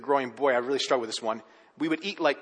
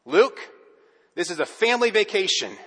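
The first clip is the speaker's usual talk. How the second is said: stern dad; 4 semitones higher, 5 dB louder than usual. Retold or imitated. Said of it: "Dad would look at Luke and say".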